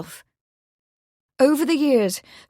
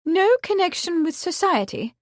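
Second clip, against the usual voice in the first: high, stunned question; shocked mother echoing her son; astonished; 9 semitones higher than usual. Acted. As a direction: repeat it in disbelief. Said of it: "Lady Marsden stared".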